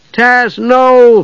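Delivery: urgent high shout; alarmed cry. A narrator's reading. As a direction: cry out to stop him. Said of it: "Palin cried".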